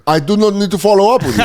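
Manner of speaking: high, quick protest; mock indignation. Acting out baffled Dutch strangers.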